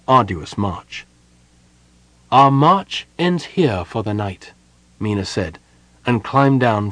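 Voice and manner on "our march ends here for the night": commanding. Acted. Mina commanding her troops.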